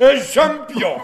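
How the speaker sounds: high, loud scornful laugh; mocking laugh. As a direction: scoff and laugh it off. Baron scoffs at threat.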